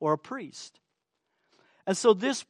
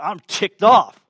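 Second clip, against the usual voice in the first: mock ticked off; 8 dB louder than usual. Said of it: "When I say".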